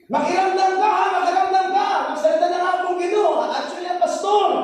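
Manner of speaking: a lightly voiced old woman telling someone to pay attention; scolding old woman.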